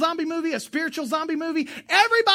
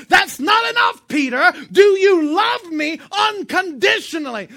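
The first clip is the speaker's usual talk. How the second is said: Jesus demanding; 6 semitones higher, 8 dB louder than usual. Acted. Jesus pressing Peter to love him unconditionally, loud demand. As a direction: push him hard, almost shouting, higher.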